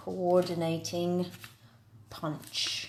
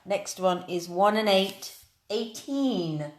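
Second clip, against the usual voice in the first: bingo caller. Acted. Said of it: "proper bingo calling".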